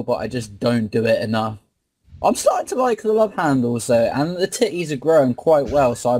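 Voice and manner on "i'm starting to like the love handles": lightly nasal nerd voice; a touch of a nerdy streamer. Pretend. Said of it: "you got the sick nerd voice going".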